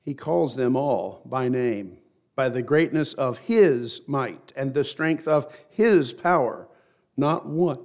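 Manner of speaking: slow, measured Bible reading with weighted words; scripture reading. Real, not acted. Preacher reads scripture to the congregation, slow and measured. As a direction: read it out solemnly, stretching the key phrases.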